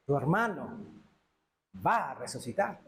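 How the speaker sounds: más grave, pausado y sereno; consuelo sereno. Acted. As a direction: dilo como una promesa que consuela. Jesús consuela a Marta. (consuelo sereno y pausado)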